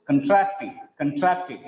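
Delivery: "contracting" with weak "cun" and strong TRACT; stress on second syllable. Shown as a demonstration. Teacher contrasting word forms, "contracting" stressed on TRACT. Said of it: "the stress is on second syllable".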